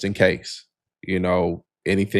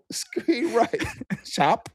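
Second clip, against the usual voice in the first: called-out play; 3 dB quieter, much slower than usual. Pretend. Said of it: "I gotta say".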